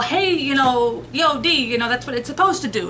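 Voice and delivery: a hint of a Brooklyn accent, tossed off; lightly put-on Brooklyn street accent; Brooklynese accent. Explaining antidepressants in a half-hearted Brooklyn accent. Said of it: "you know, Brooklynese accent".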